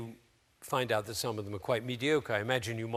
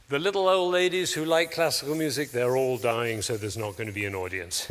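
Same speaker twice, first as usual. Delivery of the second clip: loud doom-saying, pitch sinking as it goes; mock pessimist, sliding down to the conclusion; downward spiral speaking; 5 dB louder than usual. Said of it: "what I call downward spiral speaking".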